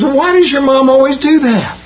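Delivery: high, lightly voiced curious schoolkid; puzzled kid. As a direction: ask it like a baffled classmate. Other kid asks the question.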